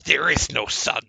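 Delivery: high, loud squeaky voice; deadpan it in the little voice; creature reply. Acted. Ghoul telling the players there is no sun, high squeaky voice.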